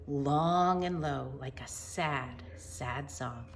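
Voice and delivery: put-on slow, expressive read-aloud for kids; gentle picture-book narration; storybook reading. Teacher reads picture book aloud.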